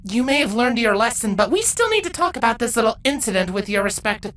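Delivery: Twilight, firm mentor. A narrator's reading. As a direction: lay down the law kindly. Twilight explaining, scolding.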